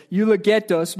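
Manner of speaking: Spanish-accented eulogetos. Real, not acted. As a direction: pronounce the Greek word with a Spanish accent. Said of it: "comes out with a Spanish accent".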